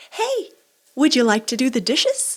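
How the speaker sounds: high sweet asking tone; mother gently asking her son about the dishes; softened question. Retold or imitated. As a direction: sugarcoat it into a polite question. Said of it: "I try to so".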